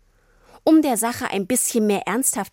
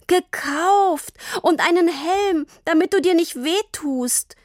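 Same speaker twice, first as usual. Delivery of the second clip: much higher, near tears; a hurt child insisting; tearful protest; 9 semitones higher than usual. A narrator's reading. Tini tearfully defends herself to Papa.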